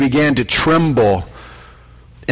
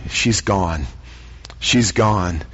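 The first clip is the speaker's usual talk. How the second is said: much lower and softer, falling; grim news; 8 semitones lower, 6 dB quieter, much slower than usual. Acted. Messenger telling Jairus his daughter died, hushed and grave. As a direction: break it gently and heavily.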